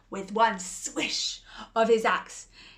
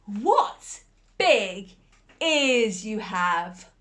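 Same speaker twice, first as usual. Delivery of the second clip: slow wonder; 6 dB louder, much slower than usual. Acted. Girl questions wolf.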